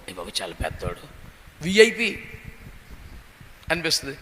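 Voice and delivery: low, hushed mocking voice of an impressed bystander; mock admiring onlooker. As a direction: sneer it out as the crowd in awe of a VIP. Onlookers praising the important man. (ఆశ్చర్యపోయిన జనం వెటకారంగా, తక్కువ స్వరంతో)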